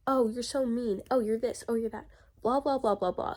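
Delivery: mildly whiny imitation of critics; lightly mocking, repetitive patter; mock whining. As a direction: mimic their complaints in a dismissive singsong. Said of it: "literally just whining".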